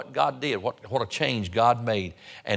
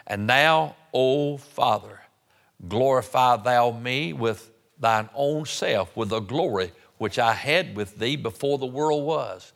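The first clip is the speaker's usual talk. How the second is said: slow, weighty Bible reading; scripture reading. Real, not acted. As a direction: proclaim the verse, drawing out the phrases. Reads scripture aloud.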